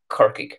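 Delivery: Kirkig said slowly and clearly; careful teacher's Kirkig; Irish pronunciation demo. Shown as a demonstration. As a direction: say Kirkig, two syllables, ending on a hard g. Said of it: "Kirkig is the Irish for Cork".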